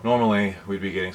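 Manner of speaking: winded, breathy start; out of breath. Real, not acted. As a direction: speak while catching your breath. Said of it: "sorry, I'm out of breath".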